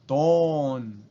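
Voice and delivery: ton with a long o; Japanese loanword. Shown as a demonstration. Teacher giving the Japanese form: トーン. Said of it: "se convierte en ton".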